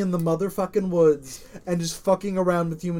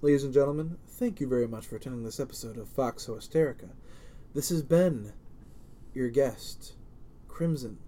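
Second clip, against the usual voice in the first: announcer voice; 3 semitones lower, 6 dB quieter than usual. Shown as a demonstration. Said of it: "my announcer voice".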